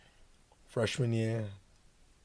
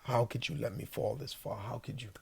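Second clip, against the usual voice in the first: quiet prayer; 6 dB quieter than usual. Retold or imitated. Crying prayer in the shower.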